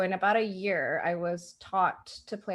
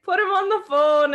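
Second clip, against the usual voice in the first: loud, high mock stern command; stern dad order; 9 semitones higher, 9 dB louder than usual. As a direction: bark it like a strict father. Stern dad demands boyfriend.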